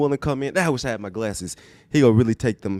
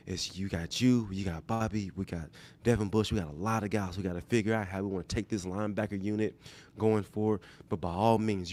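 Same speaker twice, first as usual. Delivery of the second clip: Pete Carroll impression; 4 dB quieter than usual. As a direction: reassure the player like a coach who means it. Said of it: "I'm trying to mimic Pete Boyce 'cause he's gonna have a sincere".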